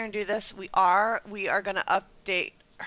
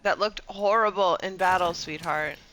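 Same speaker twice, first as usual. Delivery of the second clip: louder, mock-affectionate scolding; teasing scold; 6 dB louder than usual. Real, not acted. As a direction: tease the character like a fussy friend. Teasing her game character.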